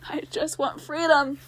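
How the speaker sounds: slow, mild plea for freedom; pleading book. Acted. Trapped book begging the girl for help, slow mild plea.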